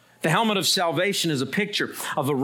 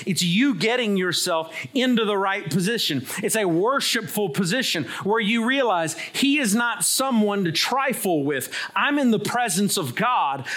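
higher, urgent pulpit delivery; emphatic preaching; 7 semitones higher than usual. Real, not acted. Preacher teaching reverence before God, emphatic preaching. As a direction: press each phrase home to the congregation.

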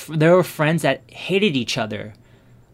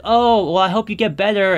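imitating an upbeat friend, high and loud; cheery, bubbly; 7 semitones higher, 6 dB louder than usual. Bubbly friend wishing a sick pal well, cheery. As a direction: chirp the get-well wish brightly. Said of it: "She's a very cheery, you know, bubbly person".

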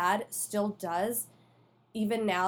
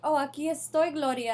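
higher-pitched mock talking cheese; dad pretending to be cheese; 6 semitones higher, 3 dB louder than usual. Dad plays the lost cheese answering his child, mock cheese voice. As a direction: imitate a dad playfully voicing the food. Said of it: "pretending like he's a cheese".

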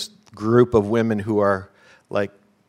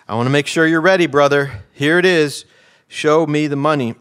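louder, higher, pumped-up athlete; hyped-up movie quote; 5 semitones higher, 6 dB louder than usual. Retold or imitated. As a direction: hype up your agent with rising energy. Acted excited athlete hyping his agent.

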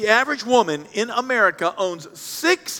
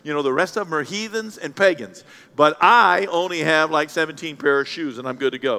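smug congregant; 4 semitones lower than usual. Retold or imitated. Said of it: "you're trying to come up and say".

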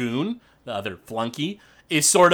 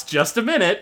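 grandma calling out; 6 semitones higher than usual. Acted. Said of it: "Grandma Yelris shouts".

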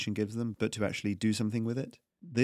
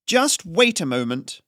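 louder, slow, ringing call to halt; strident call; 7 semitones higher, 8 dB louder, slower than usual. A narrator's reading. Haryana calls out to halt the tax collector, strident. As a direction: stop them in their tracks. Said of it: "a strident voice called out".

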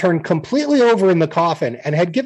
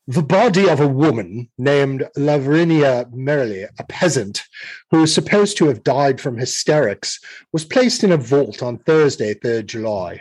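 dramatic reading voice. Acted. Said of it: "What's with the voice?".

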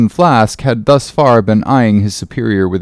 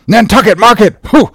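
high, incredulous echo with a puff; scornful; 8 semitones higher, 4 dB louder than usual. Acted. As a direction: scoff at the very idea. Ahab scoffs at Starbuck.

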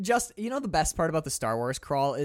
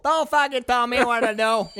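high, loud furious retort; angry shout; 10 semitones higher, 10 dB louder than usual. Acted. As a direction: snap back in a rage. Acted crew member snapping back.

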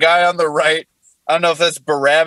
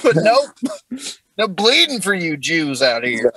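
put-on Jesus, southern accent. Comic voicing Jesus complaining on the cross, southern accent. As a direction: run it together like a southern good old boy. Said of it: "What Jesus said on the cross in a southern accent".

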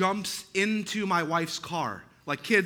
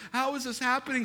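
stunned disbelief; 7 semitones higher, faster than usual. Retold or imitated. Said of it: "I'm like".

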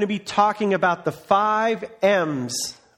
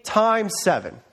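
higher, emphatic mock Jesus; Jesus correcting Peter, lightly voiced and emphatic; Jesus answering; 4 semitones higher than usual. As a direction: push back hard on Peter, pitched up. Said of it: "And Jesus goes".

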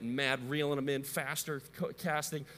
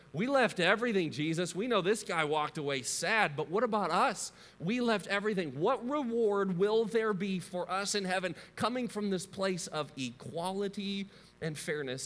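indignant Peter; 3 semitones higher than usual. Retold or imitated. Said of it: "Peter speaks up and he says".

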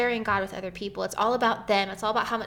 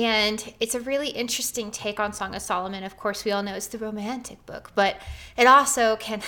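out of breath. Real, not acted. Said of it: "I'm really out of breath".

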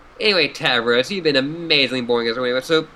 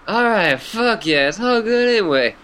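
lightly voiced stoned clown, higher; silly clown; 5 semitones higher than usual. S0 voices Gamzee, the clown troll.

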